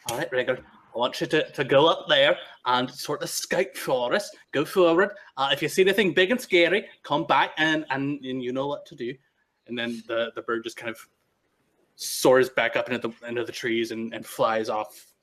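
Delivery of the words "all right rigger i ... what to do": a hint of an odd, eager woodsman introducing his birds; lightly voiced eccentric Nyctis. Game master voicing Nyctis showing his pets to the party. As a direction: proudly show off the pets, slightly higher.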